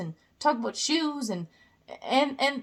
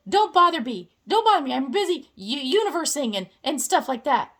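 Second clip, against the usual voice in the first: dismissive universe. Pretend. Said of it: "And universe is like".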